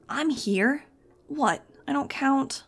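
a touch of high, put-out sulk; sulking Total. A narrator's reading. Total sulking at Max for being left out. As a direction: grumble like an overlooked little dog. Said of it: "Total said, sulking".

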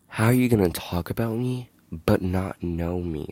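loud, indignant call-out; heated rant. Real, not acted. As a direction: tell them off, voice climbing. Venting at people who gossip.

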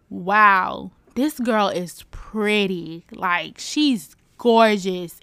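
slow, drawn-out admiration; wowed and savoring it; smitten awe. Retold or imitated. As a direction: linger on each word, awestruck. Retelling being smitten at first sight.

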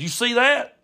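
high, pointed check; lecturing uncle Brad. Retold or imitated. Uncle testing cousin with paper wads, pointedly lecturing. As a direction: quiz him like an uncle teaching a lesson. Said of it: "He said".

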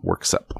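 Worksop said slowly and clearly, WERK-sop; careful Worksop. Shown as a demonstration. Reader clarifying the town name, Worksop said carefully. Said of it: "W O R K S O P".

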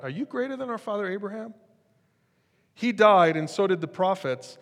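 high, sneering challenge; mocking crowd. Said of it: "That's what they're at".

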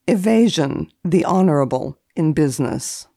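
dry formal reading of entries; deadpan list reading, each entry set apart; index read. Acted. Etiquette columnist reading old index entries, deadpan.

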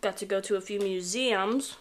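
talking while chewing a pretzel; words around a bite of food; mouth full. Real, not acted. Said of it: "sorry, I'm eating a pretzel".

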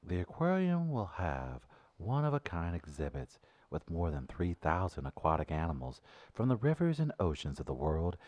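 flat monotone news read. Pretend. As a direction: read it dead flat like a robot. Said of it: "now read it in a monotone voice".

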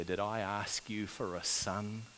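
soft, subdued grief, quoted; hushed reproach of a grieving mother; grieving woman. Retold or imitated. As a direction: quote the bereaved mother, quietly wounded. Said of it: "You can hear the grief in the woman's voice".

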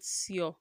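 sir misread as "see-oh"; wrong ending. Shown as a demonstration. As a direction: say sir in two syllables, see-OR. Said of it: "not sir".

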